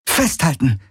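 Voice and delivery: high, contained warning cry; urgent call. A narrator's reading. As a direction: call out a command to the rider behind. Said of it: "rief sie".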